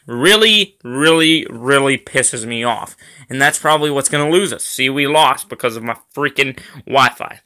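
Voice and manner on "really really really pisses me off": annoyed. Real, not acted. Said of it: "that really pisses me off".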